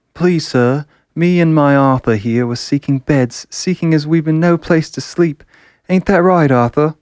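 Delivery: put-on thick English accent. Mina begging the poorhouse for beds, broad English accent. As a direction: ham up a poor Londoner's plea in broad English. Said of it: "thick English accents".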